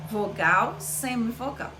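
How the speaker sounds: vogal strong, semivogal fading very soft; strong vogal then a dying semivogal; falling diphthong. Shown as a demonstration. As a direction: fade out on semivogal. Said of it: "O meu som vai cair".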